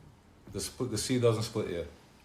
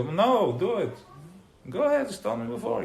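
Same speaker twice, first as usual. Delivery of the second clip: pitched up high, generous go-ahead; eager yes; 10 semitones higher than usual. Retold or imitated. To upstairs neighbor, high eager permission. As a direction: wave the neighbor on happily. His reply to neighbor quoted.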